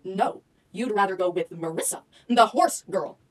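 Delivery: soft, low letdown; deflated, subdued delivery; mock dejection. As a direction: sink into quiet, put-on hurt. Turned down by crush.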